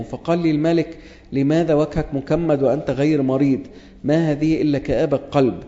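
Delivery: measured formal Bible reading; scripture reading. Acted. Preacher reading Nehemiah to the congregation, formal and measured. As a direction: read the verses like a lector.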